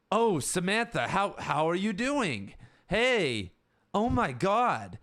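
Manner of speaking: high, loud, gushing hello; overexcited greeting. Shown as a demonstration. Demo of how people talk weird to animals, high loud gush. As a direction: overdo it like greeting a pet. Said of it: "pretend I came up to you".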